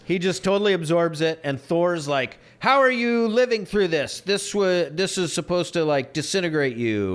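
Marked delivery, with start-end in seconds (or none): 2.6-7.1 incredulous villain, pitched way up; shocked disbelief. Retold or imitated. Quoting Thor in fight.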